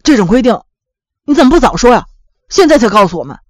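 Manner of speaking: mildly indignant complaint; annoyed. A narrator's reading. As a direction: demand an explanation, a touch irritated. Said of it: "挺生气的". (有些生气地埋怨)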